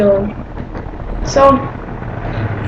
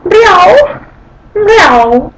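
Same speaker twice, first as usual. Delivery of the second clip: a high, rolled French-accented meow; French cat meow; 6 semitones higher than usual. Shown as a demonstration. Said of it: "French cats".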